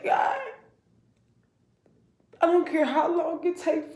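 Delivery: high, laughing cry of God. Retold or imitated. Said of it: "And I told God".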